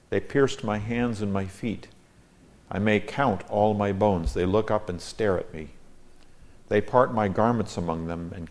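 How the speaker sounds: measured, solemn reading of a psalm; steady, reverent Bible reading; scripture reading. Acted. Reads Psalm aloud over music.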